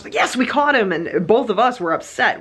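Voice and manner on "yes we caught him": triumphant cheer. Retold or imitated. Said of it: "most people, like, they catch a mouse".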